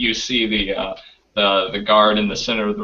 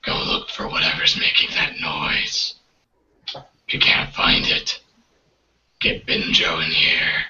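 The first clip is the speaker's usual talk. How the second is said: deep-voiced guard; 4 semitones lower than usual. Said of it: "with the deep voice".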